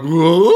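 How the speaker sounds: rising cartoon "whoa" sound; imitated gulping exclamation, swooping upward; mock gulping whoa. Mocking Tim Curry's sight gag, rising goofy whoa. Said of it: "gulping and being like".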